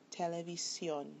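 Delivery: SIÓN stressed in Televisión; last-syllable stress. Shown as a demonstration. Teacher shows a word that breaks the rule, Televisión stressed on SIÓN. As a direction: say Televisión with the weight on its final syllable. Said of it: "on the last syllable".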